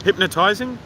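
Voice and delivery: hypnotizing tested as a high, rising question. Real, not acted. Streamer checking whether it is a word, questioning hypnotizing. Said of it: "Is that even a word?".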